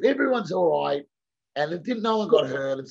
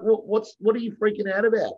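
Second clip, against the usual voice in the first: exasperated retort; 6 semitones higher, 5 dB louder than usual. Retold or imitated. Retold telling off a yelling driver.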